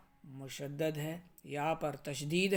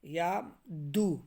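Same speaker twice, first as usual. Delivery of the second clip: ordinary talk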